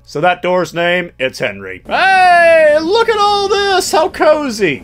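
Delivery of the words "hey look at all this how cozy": high squeaky delight; squeaky excited. Pretend.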